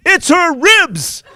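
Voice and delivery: high, very slow, dragged-out delivery; drawn-out reveal. Retold or imitated. Caroline slowly revealing to the boy it's her ribs. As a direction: stretch every word for the gag.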